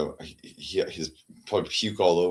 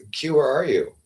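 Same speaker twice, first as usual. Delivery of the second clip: calling out; 9 semitones higher, 4 dB louder than usual. Real, not acted. Calling out to absent Q.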